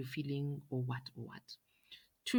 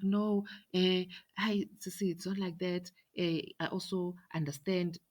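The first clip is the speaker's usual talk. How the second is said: high, loud, hurried backpedal; flustered excuse; 6 semitones higher, 3 dB louder than usual. Retold or imitated. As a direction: scramble to calm her down. Sister's flustered excuse on phone.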